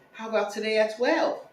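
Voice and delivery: high, mock-proper caller; white voice. Renter booking a viewing, white voice. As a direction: ask politely in a put-on white voice. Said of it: "have the white voice".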